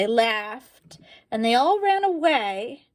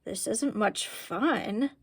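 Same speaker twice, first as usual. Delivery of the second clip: grumbling; 6 dB quieter than usual. Acted. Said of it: "the poor elephant grumbled".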